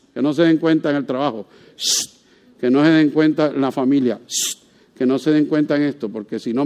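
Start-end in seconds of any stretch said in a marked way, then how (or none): 1.8-2.1 soft unvoiced hush; shushing. Cristianos callando su fe. 4.3-4.6 soft unvoiced hush; shushing. Cristianos callando su fe.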